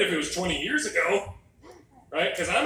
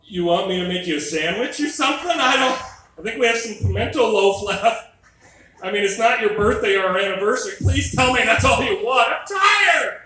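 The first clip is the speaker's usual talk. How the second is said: rising, louder and higher to a desperate yell; exasperated pleading; 5 semitones higher, 7 dB louder than usual. Retold or imitated. Tired husband answering his wife, building to a loud desperate whine. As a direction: beg off, climbing into a loud whine. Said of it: "And I'm like".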